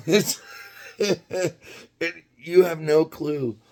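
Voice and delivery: telling the neighbour it was just two miles away, all amazed; excited. Real, not acted. High, excited disbelief.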